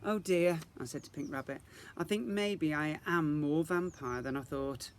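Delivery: a small sigh of realisation; mildly voiced girl confiding in her toy; Isadora, rueful. Isadora confides to Pink Rabbit.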